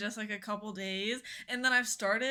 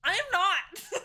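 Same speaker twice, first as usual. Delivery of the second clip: louder, higher, laughing protest; laughing denial again; 9 semitones higher, 8 dB louder, slower than usual. Real, not acted. Streamer insisting to chat she is not, laughing. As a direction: deny it while giggling.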